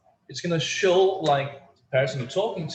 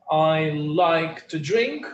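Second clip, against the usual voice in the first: slow example; 4 dB louder, much slower than usual. Shown as a demonstration. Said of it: "For example".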